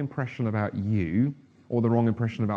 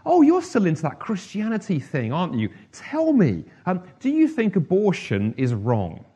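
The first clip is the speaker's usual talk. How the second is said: too loud; 7 semitones higher, 4 dB louder than usual. Retold or imitated. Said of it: "rather too loudly".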